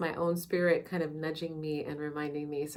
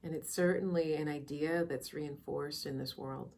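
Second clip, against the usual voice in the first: soft, unhurried meditation guide with long pauses; calm, measured meditation voice; guided meditation; 6 dB quieter than usual. Real, not acted. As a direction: ease listeners into quiet reflection, leaving space between phrases.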